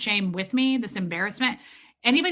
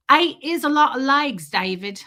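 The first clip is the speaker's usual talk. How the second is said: quoting the mom; 3 semitones higher, 5 dB louder than usual. Retold or imitated. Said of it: "she was like".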